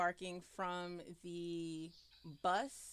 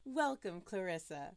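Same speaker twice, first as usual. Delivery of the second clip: creepy disembodied voice. Acted. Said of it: "the creepy voice".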